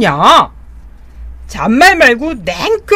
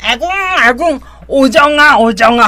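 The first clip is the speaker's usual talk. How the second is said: calling out. Acted. Palgae calls for help mid-fight.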